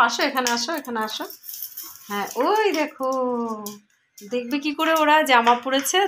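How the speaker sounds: showing the other pets Jimi's shirt, high cooing; cooing pet talk. Real, not acted. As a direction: gush over the dog in his new shirt. Showing off the dressed dog to pets.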